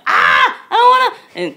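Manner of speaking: put-on high, loud whining child's voice; whiny toddler. Mom imitating her daughter's tantrum, high whiny wail. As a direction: whine it like a three-year-old in a tantrum. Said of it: "She was like".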